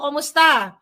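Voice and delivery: high, loud bubbly hello; chatty greeting. Retold or imitated. Greeting kababayan couple abroad, high bubbly cheer. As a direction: greet like a chatty old friend. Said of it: "machika boom boom talaga ako".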